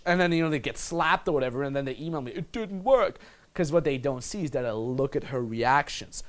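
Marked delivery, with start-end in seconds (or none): 2.3-3.2 mock complaint. Mimics complaining emails from failed students.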